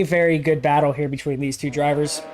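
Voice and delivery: talking through hiccups; words broken by a hiccup. Real, not acted. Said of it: "got the hiccups".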